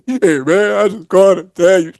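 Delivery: mock tearful apology in a wavering voice; imitated crying. Friend phoning to apologise, mock crying voice. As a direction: draw it out as if weepy, imitating him. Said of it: "Blade called me crying".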